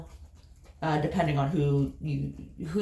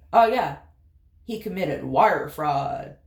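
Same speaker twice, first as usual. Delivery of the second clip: own Appalachian drawl; 2 semitones lower, 4 dB louder than usual. Retold or imitated. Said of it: "And I'll be like".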